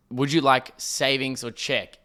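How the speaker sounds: slow, distinct retelling of a question; measured, carefully articulated question; very clear. Retold or imitated. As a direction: spell it out slowly and clearly. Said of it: "the lady distinctly ... so, so clearly".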